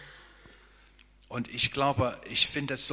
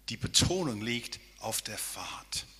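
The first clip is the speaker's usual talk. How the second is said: hushed whisper of the key point; 5 dB quieter than usual. Real, not acted. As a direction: drop to a whisper to draw them in. Preacher stresses the key point.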